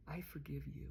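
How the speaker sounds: whispered forgiveness to her mother. Retold or imitated. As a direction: let it out barely above a breath. Candy forgiving her dying mother.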